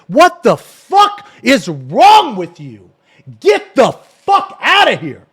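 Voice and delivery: loud, drawn-out yell of real outrage; furious shout. Real, not acted. Streamer rebukes a chatter over a racial slur, furious shout. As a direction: shout it high and slow, every word hammered. Furious rant at a chat commenter.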